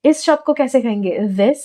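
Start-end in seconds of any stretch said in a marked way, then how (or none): 1.2-1.6 "This" begun loosely, close to a V; "This" with a mispronounced, V-like TH; wrong TH. Shown as a demonstration. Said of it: "That's actually wrong".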